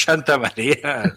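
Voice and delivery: "Santa" said as an emphatic "Shanta"; ese como "sh". Shown as a demonstration. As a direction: exaggerate an sh at the start of "Santa". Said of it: "pero no decimos Santa María". ("Santa" pronunciado "Shanta", exagerado)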